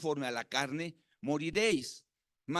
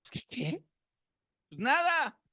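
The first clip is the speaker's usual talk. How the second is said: sheepish student; 8 semitones higher, 4 dB louder, slower than usual. Retold or imitated. Students answer nothing.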